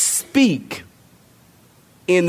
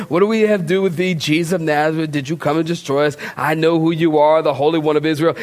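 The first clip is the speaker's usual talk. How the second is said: quick, even recital of scripture; nice reading; 2 semitones lower, faster than usual. Shown as a demonstration. Preacher shows how people read the demon's verse, tame nice reading. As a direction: rattle through the verse politely. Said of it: "we read it all nice".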